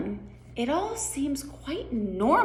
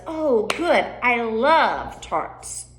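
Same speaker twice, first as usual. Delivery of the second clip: delighted; 3 semitones higher, much slower than usual. Acted. Character hears of tarts, slow delighted relish. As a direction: draw out your love of it.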